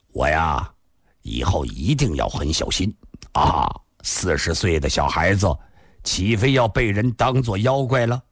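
lightly voiced bantering man; low-pitched, wry self-mockery; easygoing Li Xunhuan.

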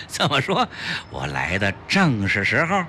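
delighted customer playing along; pleased, chuckling reply to the shopkeeper; happy laughing. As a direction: laugh first, then talk on in good cheer. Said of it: "齐长鹏高兴地笑道".

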